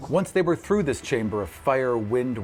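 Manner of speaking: calm storyteller recap over music; story recap narration. A narrator's reading. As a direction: tell it like a chapter summary.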